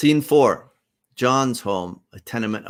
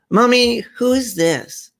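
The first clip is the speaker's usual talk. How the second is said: put-on high-pitched child's question; curious little girl; 7 dB louder than usual. Queenie asking her mother about the guest, high and childlike. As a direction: voice a four-year-old, pitched way up.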